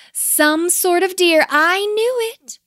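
high, loud, drawn-out crowing; triumphant owl. A narrator's reading. Owl crows over her guess.

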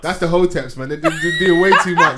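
loud laughing mockery; laughing shout. Real, not acted. Laughing shout about Hoteps.

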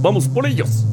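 high rallying call; heroic shout. Pretend. Cheering to Blue Demon.

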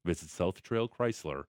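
smooth radio ad read. Acted. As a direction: read it like a sponsor spot. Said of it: "change to radio read voice".

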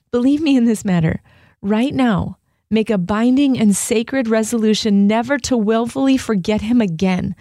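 earnest reading with a mild plea; pleading letter reading. Acted. Monk writing to a dear friend, mildly pleading. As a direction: read the letter as a gentle, urgent appeal. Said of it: "you can just hear in Brother Lawrence's voice that he's, like, pleading".

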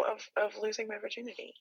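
soft, hushed admission; whispered. Real, not acted. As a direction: say it under your breath, almost whispering. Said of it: "I don't know why I whispered that".

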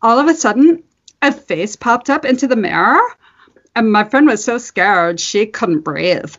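lightly voiced teen girl telling a ghost story; a hint of a breathless teen; teen girl character. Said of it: "I'm gonna try".

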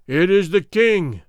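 loud, booming reply; booming crowd answer. Acted. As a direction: boom it out like a whole army. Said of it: "boomed out eight thousand throats".

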